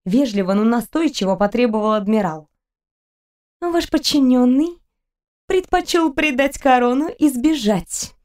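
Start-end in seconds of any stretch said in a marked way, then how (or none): 3.6-8.1 cold, slow and higher; icy voice. Acted. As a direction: say it with icy contempt. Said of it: "ледяным голосом".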